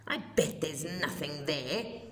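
scoffing. A narrator's reading. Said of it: "he scoffed".

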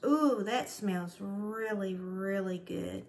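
slow, savoring sniff of delight; savoring a smell. Real, not acted. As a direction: linger on each word like a treat. Smelling shampoo.

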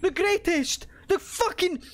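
high, far-carrying triumphant shouts; excited cheering. Real, not acted. Gamer cheering after making it through, excited shouts. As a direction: cheer like you just won the match.

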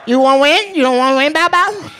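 very high, excited mock Asian dealer accent; hammed-up Asian dealer, squealed high; happy Asian dealer. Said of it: "I perfected that voice".

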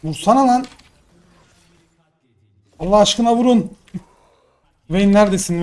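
loud and high, begging them to hit; yelling at teammates. Real, not acted. Streamer yelling at teammates to attack, loud and high. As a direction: shout hit it, for God's sake.

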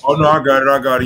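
loud, eager burst of relief; sudden excitement. Real, not acted. Host finding the lost email in spam, loud excited blurt. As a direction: blurt it out loud as you find it.

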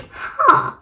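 breathy gasped huh, imitating; crayon's "huh". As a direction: mimic a crayon's airy huh. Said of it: "He's saying".

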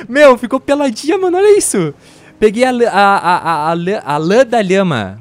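high, loud thrilled outburst; excited. Real, not acted. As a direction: squeal with delight. Sheared llama, excited.

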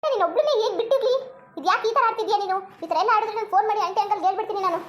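exasperated telling-off; scolding. Acted. Friend threatening to phone her parents, exasperated scolding. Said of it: "ಮತ್ತೆ ನೀನ್ ಬೈಬೇಡ ನನ್ಗೆ".

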